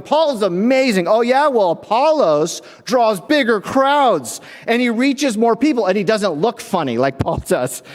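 outbrag the other side; bickering Corinthian. Retold or imitated. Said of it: "arguing and bickering".

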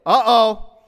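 loud, high uh-oh; mock alarm. Preacher reacting to someone who dared to object, mock alarm. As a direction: blurt out exaggerated alarm.

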